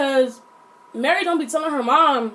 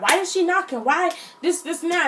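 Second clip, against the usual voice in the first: higher-pitched mock complaint; imitated complaining mom; 5 semitones higher than usual. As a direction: lightly mimic a mother griping about a visitor. Mom's complaint about visitor, acted.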